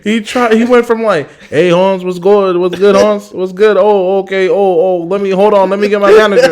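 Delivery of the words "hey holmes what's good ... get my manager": put-on Mexican accent. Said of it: "a Mexican accent".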